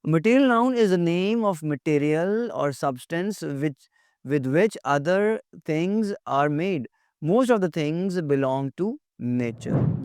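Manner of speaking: very slow, deliberate dictation; reading a definition. Acted. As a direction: spell the definition out slowly for students. Reads English definition aloud. (परिभाषा बहुत धीरे-धीरे पढ़ना)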